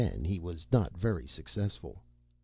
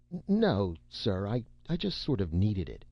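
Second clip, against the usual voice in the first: nervous stammer; 3 semitones higher than usual. Acted. Boy stammers, caught.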